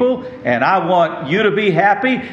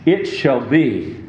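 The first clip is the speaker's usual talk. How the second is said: solemn hymn reading. Acted. Reads hymn lyrics slowly.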